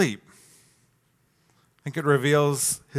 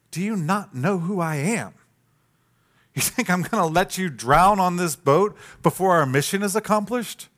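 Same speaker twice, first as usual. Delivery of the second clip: hurt, wounded; 4 semitones higher than usual. Retold or imitated. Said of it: "It's almost like he's hurt, wounded".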